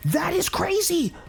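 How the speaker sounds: high, slow, breathless whisper of disbelief; stunned whisper. Real, not acted. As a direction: hush it out in shock.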